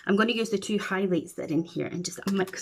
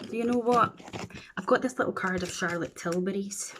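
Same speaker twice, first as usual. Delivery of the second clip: ordinary talk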